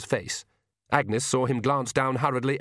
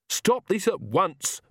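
high, slow commanding shout; 8 semitones higher, slower than usual. A narrator's reading. Magrat shouting at the Count, high command. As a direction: order them to stop. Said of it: "Magrat shouted".

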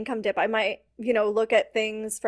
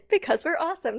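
laughing through it, higher; laughing joke; 5 semitones higher, faster than usual. Real, not acted. Coach joking about her wedding invitations, laughing. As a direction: giggle out the brag.

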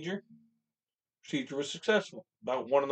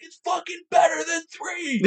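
higher, slower, loud heckling shout; taunting shout; 6 dB louder, slower than usual. Retold or imitated. Fan heckling rival fans in the stands, loud shout. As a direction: yell it back at the other fans. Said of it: "I'm like".

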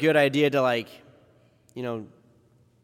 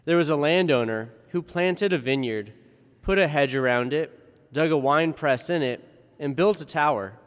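formal liturgical reading voice; Gospel reading. Acted. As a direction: proclaim the Gospel solemnly.

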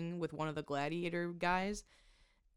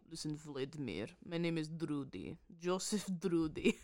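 put-on Russian accent; 3 semitones lower, 5 dB quieter than usual. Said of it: "a Russian accent".

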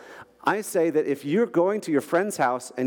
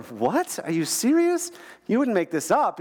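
incredulous, the question jumping higher; surprised disbelief; 5 semitones higher than usual. Retold or imitated. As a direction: retell the crowd's disbelief, half-acted. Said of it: "And everyone's going".

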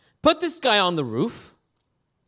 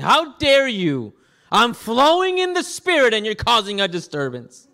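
mock indignation; 3 semitones higher, 3 dB louder than usual. Preacher imagining himself scolding interrupters, in mock indignation. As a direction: scold them with pompous mock offense. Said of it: "That's something I would say probably".

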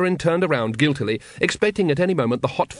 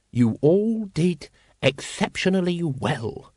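slow, higher-pitched praise; encouraging; 6 semitones higher, slower than usual. A narrator's reading. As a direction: praise the followers slowly and deliberately. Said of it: "the Supreme Grand Master encouragingly".

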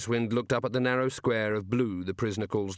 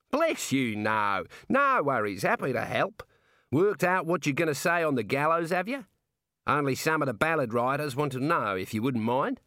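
lightly voiced Australian jailer, a little higher; chatty Aussie warder; warder with Australian accent; 5 semitones higher than usual. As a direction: play an easygoing Australian prison guard.

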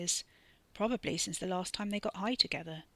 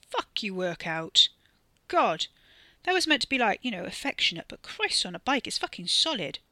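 loud stoned rant; 2 semitones higher, 5 dB louder than usual. Acted. Stoned Wes rants about muscles.

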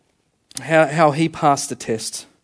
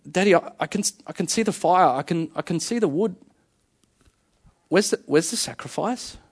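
put-on little boy; 5 dB quieter than usual. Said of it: "his little boy looks at him".

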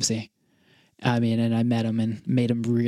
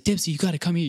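raised-pitch mock yell, held back; retold scream; 5 semitones higher than usual. Fan retells begging his idol to come over, mild mock scream. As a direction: imitate calling a player over without full volume. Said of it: "like, screaming at him".

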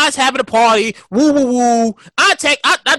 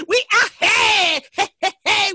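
excited shout; 8 semitones higher, slower than usual. Real, not acted. Hyped memories, shouting.

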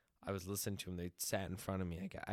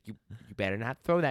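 put-on old woman warning; 3 semitones higher, 10 dB louder, faster than usual. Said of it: "She's like".

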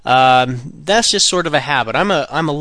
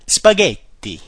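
Italian flair; 4 semitones higher, 4 dB louder, slower than usual. Shown as a demonstration. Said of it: "with the Italian flair".

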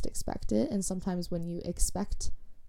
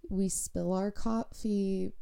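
odd slow delivery; slower than usual. Real, not acted. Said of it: "I don't know why I said it like that".

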